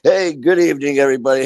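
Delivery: hamming up a chipper host hello; cheery show greeting. Retold or imitated. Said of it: "man, I was like".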